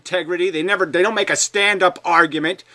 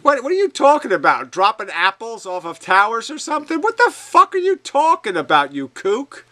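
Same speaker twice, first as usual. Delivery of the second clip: swearing tirade; 5 semitones higher than usual. Real, not acted. Angry demand in heated debate.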